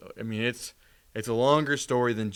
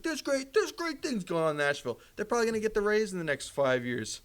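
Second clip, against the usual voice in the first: high, bright-sounding radio host pitch; radio guy voice; 7 semitones higher than usual. Retold or imitated. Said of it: "just talking like a radio guy".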